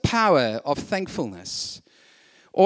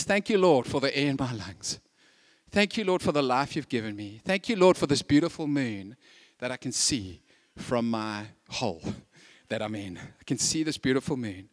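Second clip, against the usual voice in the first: hushed prayer; 6 semitones lower, 6 dB quieter than usual. Acted. Donkey's prayer voiced softly.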